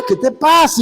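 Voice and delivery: high, startled question, acted; alarmed retort. Pastor to the howling young man, high alarmed question.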